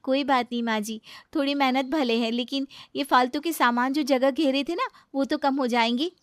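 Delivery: high, coaxing bride's voice pushing to throw it out; young daughter-in-law. Acted.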